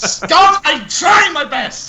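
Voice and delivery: high laughing yelp, then pleading; laughing shout. Real, not acted. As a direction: squeal it out while laughing. Laughing protest at teasing.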